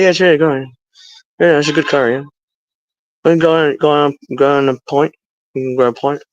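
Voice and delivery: casual Cockney chat; Cockney accent. Shown as a demonstration. Demonstrating their teenage way of talking, Cockney accent. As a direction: toss off little phrases in Cockney. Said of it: "I was like a Cockney accent".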